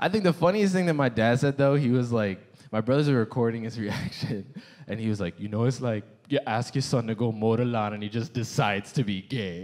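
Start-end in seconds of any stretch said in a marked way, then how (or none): 5.4-9.7 put-on fake Jamaican accent. Retelling the funniest thing their dad said, in a put-on Jamaican accent. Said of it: "[Jamaican accent]".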